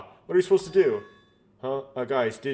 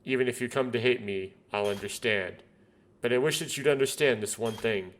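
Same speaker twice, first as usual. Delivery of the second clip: tender farewell. Acted. Farewell message heard in a dream.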